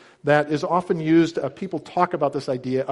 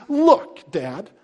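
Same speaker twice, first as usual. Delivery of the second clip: acted indignant son scolding his father; disrespectful son; 6 semitones higher than usual. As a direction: lecture Dad as an insolent son. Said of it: "This is so disrespectful".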